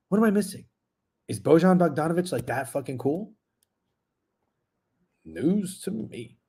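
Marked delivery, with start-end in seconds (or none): 5.2-6.4 dry deadpan. Real, not acted.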